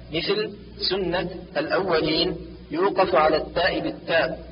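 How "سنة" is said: سنة ending in t, sunnat; stop on taa. Shown as a demonstration. Teacher shows the pause rule, سنة as sunnat. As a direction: pronounce the final ة of سنة as t. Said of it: "وقف عليها بالتاء".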